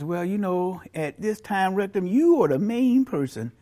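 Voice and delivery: soft, subdued admission; mock-humble, hushed surrender; reluctant concession. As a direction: give in quietly. Brain reluctantly concedes to rectum.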